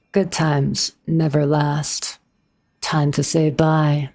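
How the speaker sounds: a hint of Kafka's voice, slowed down; Kafka impression. Shown as a demonstration. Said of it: "Can you do Kafka Boom?".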